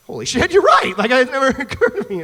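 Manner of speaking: high, loud mock astonishment; sudden realization. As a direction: blurt it out as it dawns on you. Acts out sudden realization to friend.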